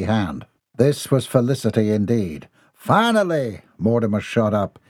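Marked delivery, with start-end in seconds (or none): 2.7-3.6 relieved exclamation. Acted. Relieved prisoner called.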